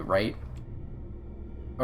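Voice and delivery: normal talking voice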